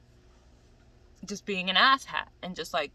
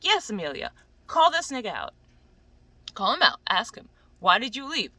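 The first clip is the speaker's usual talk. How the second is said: loud, emphatic egging-on; urging on; 5 dB louder than usual. Acted. Cheering Amelia on to confront him, loud and indignant. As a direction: demand answers in punchy, loud bursts.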